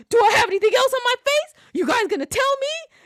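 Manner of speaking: high, fast, half-laughing whimper; embarrassed whining. Retold or imitated. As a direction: play him fretting over his face. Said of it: "so fucking embarrassed".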